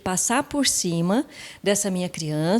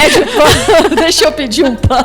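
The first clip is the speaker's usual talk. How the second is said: louder and higher, through laughter; laughing; 8 semitones higher, 10 dB louder than usual. Real, not acted. Speaker joking along about ordering bread, laughing. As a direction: crack up while joining in the joke.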